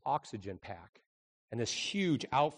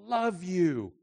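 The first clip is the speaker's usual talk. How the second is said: slow, tender voice of God; God speaking; 9 semitones higher, 5 dB louder, much slower than usual. Acted. God telling Israel he loves them, slow. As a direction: say it slowly as God. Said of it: "And God says through Malachi".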